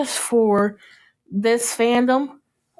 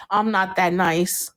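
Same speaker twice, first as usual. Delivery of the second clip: slow, understated imitated threat; slightly threatening; 3 semitones lower than usual. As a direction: quote it slowly with a hint of menace. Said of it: "it sounded a little threaty".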